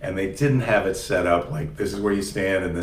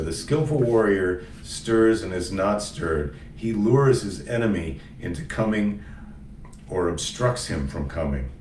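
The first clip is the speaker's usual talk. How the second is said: solemn reading; slower than usual. Shown as a demonstration. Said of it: "I'm gonna read".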